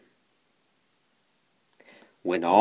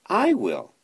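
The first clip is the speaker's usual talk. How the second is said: very high eager bark; barking dog; 11 semitones higher than usual. A narrator's reading. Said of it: "barked the dog".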